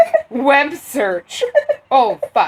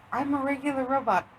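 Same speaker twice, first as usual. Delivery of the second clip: lightly voiced automated robot; a hint of a machine voice; 3 semitones higher, faster than usual. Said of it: "the automated system, she's like".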